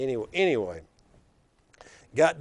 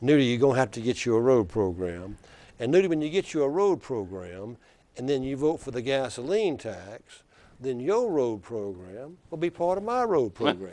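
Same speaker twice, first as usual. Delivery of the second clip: put-on Wallace's Black Belt accent. Wallace lecturing Nudie over the gas tax, in a mild Black Belt accent. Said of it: "he says in that deep black belt accent".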